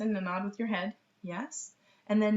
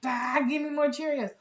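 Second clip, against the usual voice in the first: put-on higher, louder little kid wanting more Cheerios; mock toddler whine; 7 semitones higher, 6 dB louder than usual. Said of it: "wait for them to be like".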